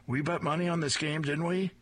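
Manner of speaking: high and quick, pleased with herself; gleeful gloat. Acted. Grandma teasing her friend about the bet, quick gleeful. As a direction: rub it in with a grin.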